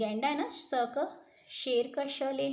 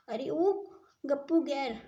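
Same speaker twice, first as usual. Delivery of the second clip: loud call across the jungle; hey you, where are you, loudly; 3 semitones higher, 4 dB louder than usual. Acted. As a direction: call out his name, a bit louder. Lion calling out for rhino.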